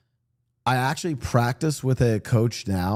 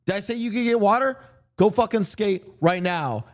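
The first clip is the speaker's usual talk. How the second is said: high-pitched imitation of a yelling coach; retold coach yell; 9 semitones higher than usual. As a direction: act out the coach chewing out a kid. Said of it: "he just yells".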